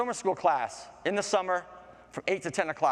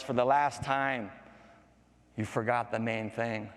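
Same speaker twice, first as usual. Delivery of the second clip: final warning; 3 semitones lower than usual. Acted. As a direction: space the words out gravely.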